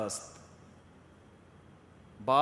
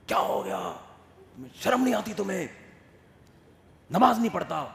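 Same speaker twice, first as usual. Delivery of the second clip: loud, higher angry scolding; yelling father; 5 semitones higher, 5 dB louder than usual. Retold or imitated. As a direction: shout at the son in anger. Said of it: "چیخ رہا ہوتا ہے،". (غصے سے چیختا باپ)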